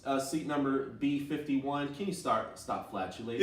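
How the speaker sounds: courteous flight attendant asking nicely. Pretend. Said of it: "the perfect flight attendant voice".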